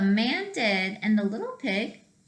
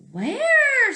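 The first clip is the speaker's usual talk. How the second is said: very high, louder squeal; squeaky little pig; 7 dB louder than usual. Acted. Little pig asks where, squealing. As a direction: squeal the question.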